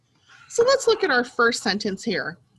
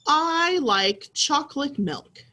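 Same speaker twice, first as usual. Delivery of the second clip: put-on boy's line read; 4 semitones higher, slower than usual. Shown as a demonstration. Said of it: "the boy said".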